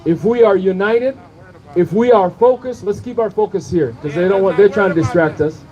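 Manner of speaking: rising refrain, building each time; rally oratory. Real, not acted. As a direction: preach it to the crowd. Rally speaker chanting a rhetorical refrain.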